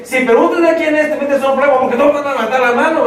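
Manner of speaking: urgent little tempter; tempting inner voice. Acted. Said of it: "vocecita le dice".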